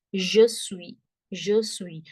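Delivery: suis as "swee", final s silent; French pronunciation of suis. Shown as a demonstration. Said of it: "the sound of U I is V".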